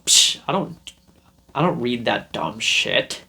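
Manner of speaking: scoffing brush-off, a breathy psh; mock rude scoffer; dismissive scoff. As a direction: sneer it away as dumb. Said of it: "I didn't respond like that".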